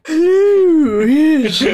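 put-on old lady voice.

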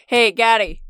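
a hint of Scottish; Scottish accent. Calling Gary on the spirit phone, lightly Scottish. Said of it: "I've gone very Scottish with it now".

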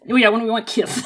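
put-on laughing baby-talk echo. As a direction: lisp it like a needy child. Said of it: "a very specific noise".

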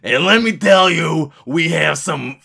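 big projected salesman voice; brash pitchman character. Acted. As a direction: belt it out like an over-the-top ad. Retakes the promo.

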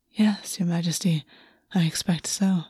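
soft, hushed, fond whisper; tender whisper. Acted. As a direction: answer him close and tender. Lover whispers reply.

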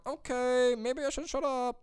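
high, meek mock backing-down; drawn-out high voice, sheepishly giving in; cowed boss. Superiors caving to angry employee, meek.

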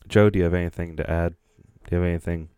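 loud, quick call across the room. Real, not acted. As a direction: raise the voice to get his attention. Calling on a quiet co-host.

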